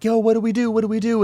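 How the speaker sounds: high-pitched imitation of frantic yelling; mock panicked yelling. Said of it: "ye-, yelling".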